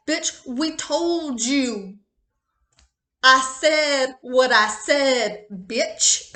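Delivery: loud, slow, drawn-out scolding; sassy scolding spirit. Pretend. Spirit scolding the tarot reader, loud and slow. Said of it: "spirit could just be like".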